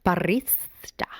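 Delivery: whispered. Real, not acted. Correcting the pronunciation of barista.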